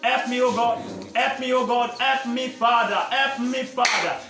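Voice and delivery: repeated, evenly chanted plea to God; pleading prayer. Real, not acted. Preacher leads the congregation begging God for help, pleading prayer. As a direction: plead in short, insistent repeated cries.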